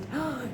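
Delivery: soft gasp of delight; quick awed intake of breath. Acted. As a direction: gasp at a wonderful taste. Wife tastes the berries.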